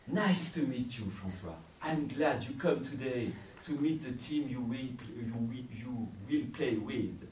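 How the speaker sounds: a hint of an eager host; lightly voiced cheerful stranger; welcoming host voice. The rat man greets him.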